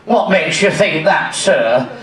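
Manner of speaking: camp shop assistant, dropping low at the end; John Inman. Acted. Shop assistant querying the customer, camp impression. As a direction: question the customer in camp politeness. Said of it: "John, I need a size fourteen".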